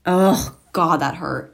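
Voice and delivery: loud groaning oh God; pained outcry. Real, not acted. Vlogger hurt by her eyelash curler, loud. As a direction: cry out from the sting.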